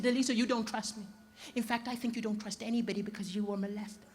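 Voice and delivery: soft, low, measured analysing voice; calm therapist girlfriend. Retold or imitated. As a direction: deliver the diagnosis quietly and evenly. Same calm analysing partner imitated.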